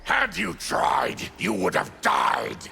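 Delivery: shouted threat. Acted. Threat traded between game characters.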